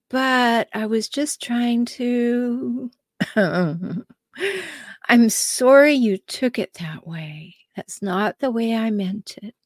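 slow, syrupy fake apology; a hint of feigned sorry; mock faux apology. Shown as a demonstration. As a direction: act out a passive aggressive non-apology, drawn out. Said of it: "So what does that sound like?".

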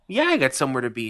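quick deadpan comeback; a touch of sarcastic echo; flat retort. Retold or imitated. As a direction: throw her words back at her. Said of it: "And I go".

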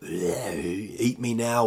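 slow, drawn-out voice of leftover soup; talking soup. Acted. Soup calling from the fridge, slow comic voice. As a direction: ooze the words out slowly. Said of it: "doing that kind of".

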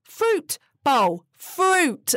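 Fruit bowl with a clear rolled-back R; careful R. Shown as a demonstration. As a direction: say Fruit with a proper R sound, not W. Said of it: "right here I'm saying fruit bowl".

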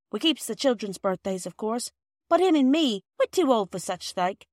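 lightly voiced working mother, a bit breathless with apology; a hint of a busy mother explaining herself; flustered housewife. Mrs Perks explains the birthday.

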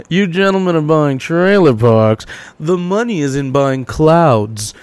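slow, lordly mentor voice lecturing the amateurs; rich businessman. Retold or imitated. Rich guys schooling podcast hosts, in a slow lordly voice. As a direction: talk down slowly, like a smug tycoon. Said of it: "they'd be like".

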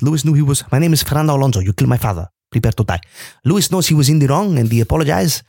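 wandering mock Spanish accent; Fernando. Podcaster as Fernando blaming Lewis after the race, bad Spanish accent. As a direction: overdo a Spanish accent, unconvincingly. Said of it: "what I'm doing with that accent".

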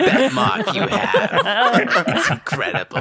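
high, breathy squeaky goblin. Acted. Goblin tattoo artist squeals over Patty's mark.

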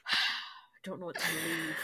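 slow, soft fake-tearful voice; mock despair. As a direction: lament as if helplessly torn. Acting out confusion over reviews.

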